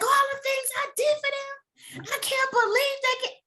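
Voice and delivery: sing-song moan of a taken-for-granted mother; hammed-up wail of the unappreciated mom; mock self-pitying martyr. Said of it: "And you're like".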